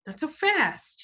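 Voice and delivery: tough guy cutting him off; menacing biker. A narrator's reading. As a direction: block his way, threatening. Biker blocks the door.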